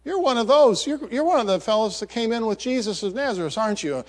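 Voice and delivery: high, pointed accusing voice; lightly voiced servant girl accusing Peter; accusing woman. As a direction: jab the finger at him as you say it. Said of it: "And the woman's saying".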